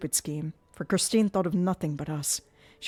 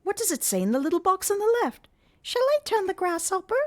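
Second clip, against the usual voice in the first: Erik ventriloquist; 6 semitones higher, 5 dB louder than usual. Acted. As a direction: toy with her like a showman.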